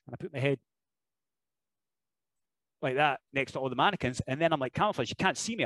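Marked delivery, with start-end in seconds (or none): 4.7-5.6 higher, cocky playful taunt; mock John Cena taunt. Wrestler teasing the crowd, mock cocky taunt. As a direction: tease that nobody can see him. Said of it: "I'm like John Cena".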